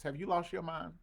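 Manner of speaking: hammed-up indignant challenge; mock confrontation. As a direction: playfully call out an email writer. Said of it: "you wouldn't talk like this to my face".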